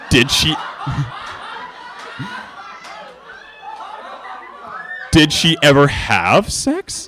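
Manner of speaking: can barely get it out for laughing; laughing while reading. Real, not acted. Reader giggles at Celestia's memory, laughing through.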